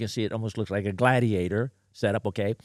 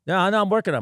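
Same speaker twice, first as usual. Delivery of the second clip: defensive electrician; 7 semitones higher, 5 dB louder, much faster than usual. Retold or imitated. Electrician insists, retold.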